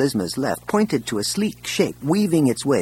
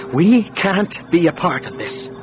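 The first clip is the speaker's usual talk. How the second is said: higher-pitched, firm refusal; bold announcement; 6 semitones higher than usual. A narrator's reading. Brother blocks the console and refuses, boldly. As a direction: declare it boldly. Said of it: "he announced".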